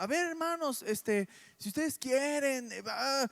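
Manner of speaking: sudden loud fast alarm call; mock fire-alarm shout. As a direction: startle them like an emergency exit call. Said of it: "Ya desperté a más de uno". (grito de alarma fingido, fuerte y rápido)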